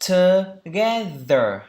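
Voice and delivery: Together slow and loud, the second syllable GE punched; stress on GE. Shown as a demonstration. Teacher stressing the second syllable of Together. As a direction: lean hard on GE in Together. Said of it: "trọng âm, âm tiết thứ hai".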